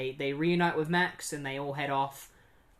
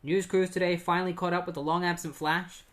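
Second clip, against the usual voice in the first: news report; 2 semitones higher, faster than usual. Retold or imitated. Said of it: "some news going on on T V".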